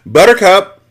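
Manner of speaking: loud, high call of a name. Acted. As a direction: call her from the house. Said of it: "the father called".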